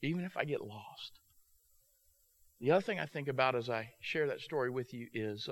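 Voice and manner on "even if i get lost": put-on child's voice. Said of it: "He said".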